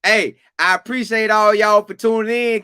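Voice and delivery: loud show-opening hype, last words drawn out slow; hype intro. Real, not acted. Host greets listeners with loud hype.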